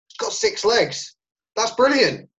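high, slow, thrilled exclamation; delighted amazement. Retold or imitated. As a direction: gasp it out like a thrilled fan. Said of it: "I was like".

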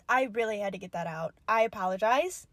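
low, soft, quick sheepish apology. Real, not acted. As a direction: come down, embarrassed. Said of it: "Apologize for the obnoxious screaming".

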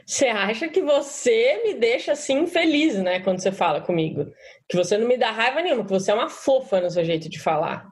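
mildly aggressive, mocking retort; sarcastic comeback. Shown as a demonstration. Participant answers facilitator's angry complaint in the violent way, sarcastic. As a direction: throw the blame back with mock sweetness. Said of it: "uma forma mais agressiva, mais violenta".

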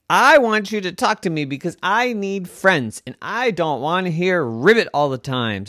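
pig voice. A narrator's reading. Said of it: "said Huxley".

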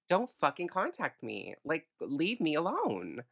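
exasperated, building to a loud blast on the last fuck off; telling every bad date to get lost, in rising fury; fed-up rant. To men who waste her time, a fed-up rant building to a shout.

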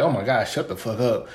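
muttered under breath. Retold or imitated. Muttering behind the closed door where his partner can't hear him. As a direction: grumble it quietly so she can't hear. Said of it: "In your head".

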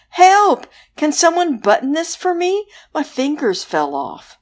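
high, loud panicky zombie; hammed-up helpless zombie. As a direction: cry for help like a clumsy zombie. Zombie crashes in.

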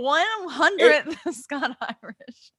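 high, loud, drawn-out mock brag; boastful American tourist. American telling every Scot about their heritage, loudly mock-boastful. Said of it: "what every American tells every Scot and Irish person".

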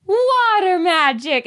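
hammed-up wonder; mock mystical. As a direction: intone it like a fake sorceress. Mocking character in recap.

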